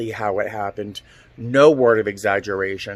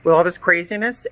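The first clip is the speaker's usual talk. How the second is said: light funny tone; 5 semitones higher than usual. Retold or imitated. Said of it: "in a light, funny tone".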